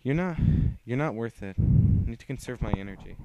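loud, cutting brush-off; loud scorn at an unworthy opponent; scornful dismissal. Acted. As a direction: sneer it out loud. Dismissive fighter brushing off Lucy.

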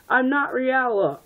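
high, slow mock scream; half-hearted scream. A narrator's reading. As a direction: stretch out a pretend scream. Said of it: "he screamed".

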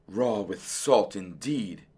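slow, soft grumble; muttering. A narrator's reading. Dentist recalling the fox's dream, muttered. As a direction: mutter it darkly to yourself. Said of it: "muttered Doctor DeSoto".

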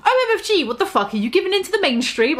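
high, fast scandalised outburst; shocked. A narrator's reading. Enderby scandalised by Draco, high shocked outburst. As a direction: shriek it in disbelief. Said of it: "I asked".

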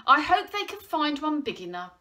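gleeful mockery; amused teasing. A narrator's reading. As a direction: toss the cheeky joke out fast. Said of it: "Joe laughed".

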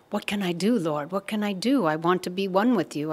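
earnest plea, pitch lifted; acted-out appeal to the Lord; pleading. Devotee prostrated before Krishna, pleading.

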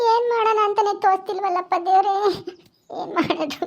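fading, helpless weepy voice; tearful lament. Acted. Abandoned wife has no idea what to do, tearful lament. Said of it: "ಹಿಂಗ್ ಅಳ್ತಾ ಇದ್ಯಾ".

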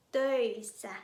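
töissä with rounded ö and a held double s; Finnish ö. Shown as a demonstration. Teacher models töissä for students, rounded ö. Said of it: "เดี๋ยวเรามาฝึกกันเลยค่ะ".

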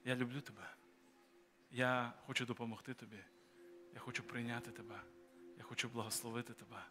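soft quiet voice of God's love; gentle voice of Jesus. Pretend. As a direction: speak it as a tender inner voice. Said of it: "і говорить".

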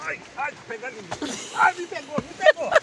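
pained yelps, rising to a squeal; sore muscles. Real, not acted. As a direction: groan through a back twinge. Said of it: "Ai, minhas costas".

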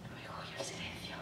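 breathy, voiceless recollection; hushed, fading into silence; fearful whisper. Acted. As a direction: whisper it haltingly to yourself. Recalls steps fading away.

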